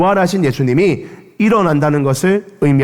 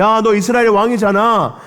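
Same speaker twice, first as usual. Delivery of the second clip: mocking tease; 3 semitones higher than usual. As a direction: goad the king to come down. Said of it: "사람들이 놀리는 거예요".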